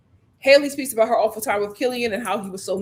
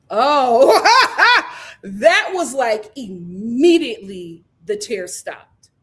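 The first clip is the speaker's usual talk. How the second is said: laughing, loud and amused; cracking up at the sudden switch; 7 dB louder, slower than usual. Real, not acted. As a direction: laugh through the disbelief.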